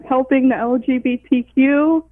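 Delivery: holding back real laughter, breaking at the end; trying not to laugh. Real, not acted. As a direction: try to keep a straight face and crack up. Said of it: "can't even say it without laughing".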